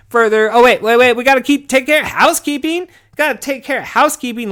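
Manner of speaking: high, loud rushed stop; host remembering housekeeping before the episode; sudden catch. Real, not acted. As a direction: hit the brakes before the outro. Catches himself mid-outro.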